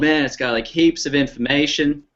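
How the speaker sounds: put-on lightly done Australian accent, leaning on heaps; a hint of Aussie, teasing a friend; mock Australian accent. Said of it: "That was my accent".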